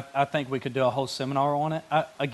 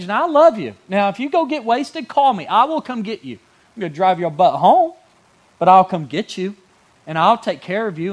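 higher and louder, a firm leader's voice; firm confronting; 6 semitones higher, 6 dB louder than usual. Acted. Leader to wayward kid, firm and loud with love. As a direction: drive it home like a mentor who cares.

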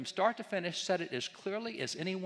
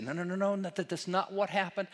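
higher, rattled-off mock protest; mock dismissal; 4 semitones higher, 3 dB louder than usual. Lecturer mimics people today denying the writings, mock dismissal. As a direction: wave it away with imitated insistent denial.

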